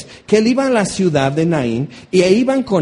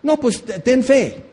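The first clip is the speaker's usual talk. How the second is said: higher, glib mock advice; mocking empty comfort; 6 semitones higher than usual. Preacher parodying glib comforters telling him to have faith, higher mock tone. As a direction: toss it off like a cheap platitude. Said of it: "¿Cómo lo sabes?".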